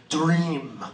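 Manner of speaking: a lightly voiced monk, one slow falling word; calm monk's single word. Monk answers Tim's speech in one word, lightly voiced. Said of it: "I can never do justice to the way this guy said that word".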